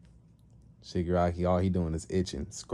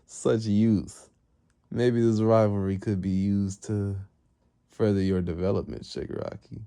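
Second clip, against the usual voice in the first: amused villain master. Retold or imitated. Amused master addressing the rivals.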